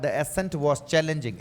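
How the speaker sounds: slow, measured example for repeating; spaced-out English model reading; model sentence. Shown as a demonstration. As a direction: read it out slowly for learners. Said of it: "इसको बोलते रहो".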